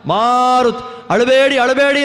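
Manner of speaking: drawn-out, coaxing plea to stop crying; storyteller's slow, coaxing call to babies; acted soothing of babies. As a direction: act out hushing wailing infants, stretching the name. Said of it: "ಅಳ್ತಾ ಇದೆ ಆ ನಲವತ್ತೊಂಬತ್ತು ಕೂಸುಗಳು".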